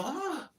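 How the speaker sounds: high soft mock yelp. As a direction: squeak like a hit girl. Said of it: "they hit them and they go".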